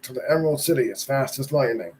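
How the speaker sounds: fast commanding order. Acted. Wicked Witch ordering her broomstick, quick command. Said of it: "she ordered".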